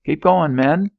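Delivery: high, loud yell; shouted order. Acted. Officer shouting his troops forward. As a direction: bark it at the men.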